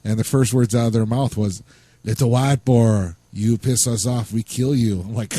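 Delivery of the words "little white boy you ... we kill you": slow, badly faked Hispanic accent, menacing uncle; a clumsy Hispanic-accent imitation of a threatening uncle. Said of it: "that was the worst Hispanic accent I've ever heard".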